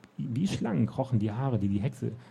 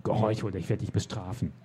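lightly voiced witch giving orders; witch commanding; 4 semitones lower than usual. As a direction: order him about like a spiteful witch. Witch voice held.

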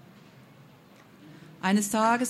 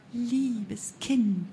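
honey-sweet voice; 2 semitones higher than usual. A narrator's reading. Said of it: "mit honigsüßer Stimme".

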